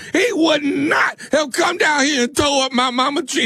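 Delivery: fake crying. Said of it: "the hell you crying for".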